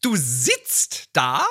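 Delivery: Ehefrau, langsam gesprochen; ungläubig nachhaken; nörgelnde Ehefrau. Acted. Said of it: "so ein Lieblingstext". (leicht gespielte Ehefrau, langsam)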